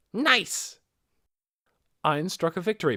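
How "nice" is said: much higher, louder delighted cheer; inner triumph. Acted. Ainz cheering inwardly when Nabe asks, high and loud. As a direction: silent victory pose in the voice.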